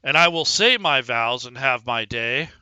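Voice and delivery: determined. Acted. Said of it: "determined and pissed off".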